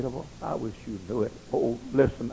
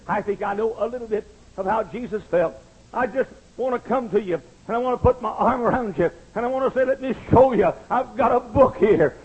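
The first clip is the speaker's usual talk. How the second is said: raised, lilting preacher's voice; earnest preaching; 8 semitones higher, 5 dB louder than usual. Real, not acted. Preacher offering the book to the congregation, earnest and raised. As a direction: preach it higher, reaching out to them.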